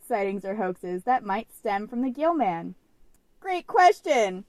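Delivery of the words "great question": loud, drawn-out, hammed-up excitement; mock enthusiasm. Co-host moving on to the cryptid list, hammed-up enthusiasm. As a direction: stretch it out like an over-eager host. Hamming up the segment transition.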